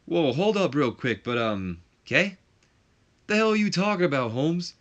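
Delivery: high, loud interrupting wrestler; Chavo Guerrero Junior. Acted. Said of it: "Chavo Guerrero Junior, who goes".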